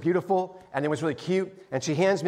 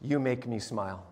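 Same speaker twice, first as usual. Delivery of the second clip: softer and lower, moved; tender reading; 7 semitones lower, 8 dB quieter than usual. Retold or imitated. Pastor rereading the child's card, hushed and moved. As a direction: read it hushed, years later. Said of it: "I open it up".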